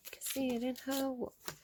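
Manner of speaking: hushed. Acted. Reader murmuring a song line over the cards.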